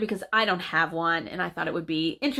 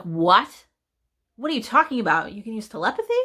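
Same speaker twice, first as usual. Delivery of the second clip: imagined bewildered reply; 2 semitones higher than usual. Retold or imitated. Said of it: "And you're like".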